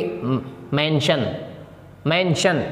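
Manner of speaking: मेंशन said slowly and softly with a sh ending; soft slow demo of मेंशन; sh sound. Shown as a demonstration. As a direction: ease into मेंशन and shade the sh. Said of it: "यहाँ पे भी आवाज़ निकलेगी".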